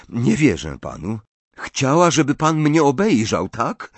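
lightly voiced suspicious boy; distrustful accusing boy. Riddle challenges Dumbledore about why he came, distrustful.

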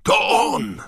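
very high, loud, thrilled yell; excited screaming. A narrator's reading. Ron spotting Krum in flight, screaming with excitement. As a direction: squeal it out at the sight of your idol. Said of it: "wrzeszczał Ron".

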